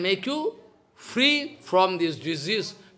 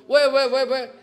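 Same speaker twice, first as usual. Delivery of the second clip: hurried, louder call to stop him; urgent wait; 4 semitones higher, 5 dB louder than usual. Retold or imitated. Sannyasi halts the desperate man, urgently louder. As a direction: cut him off quickly.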